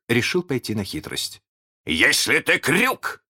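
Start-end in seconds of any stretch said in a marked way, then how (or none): 1.9-3.2 higher, slow, mildly meek question; drawn-out tentative opening; almost humble. A narrator's reading. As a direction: reason with the voice, nearly submissive. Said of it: "сказал он чуть ли не смиренно".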